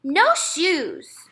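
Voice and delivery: put-on high, loud little-kid refusal; stubborn toddler whine; toddler refusing. A narrator's reading. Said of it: "Fudge said".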